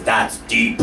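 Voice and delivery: low, weighty verdict; Oprah. Retold or imitated. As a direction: say it low after letting it sit. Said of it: "Oprah lets that moment sit".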